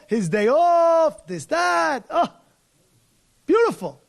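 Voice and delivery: high, loud, slow mock delight; mock relish. Rabbi mocking a Sabbath driver's carefree day, loud mock relish. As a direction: savor it sarcastically.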